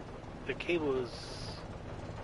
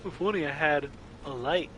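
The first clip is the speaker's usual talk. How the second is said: mocking. Shown as a demonstration. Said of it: "I don't like the wording".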